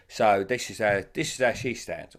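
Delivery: a light Cockney lilt like his mum; London mum's Cockney, lightly done. Retold or imitated. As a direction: do your Cockney mum, a touch of Michael Caine. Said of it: "this is a bit too Michael Caine for me".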